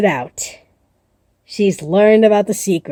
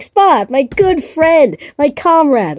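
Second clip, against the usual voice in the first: higher, slow, syrupy fake friendliness; fake friendly; 5 semitones higher, slower than usual. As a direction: lay the false charm on thick. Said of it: "trying to look more polite and friendly".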